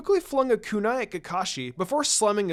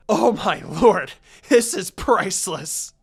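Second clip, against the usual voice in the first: slow, loud, through laughter; howling with laughter; laughing hard; 7 dB louder, slower than usual. A narrator's reading. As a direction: crack up rolling on the ground. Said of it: "bursting out laughing".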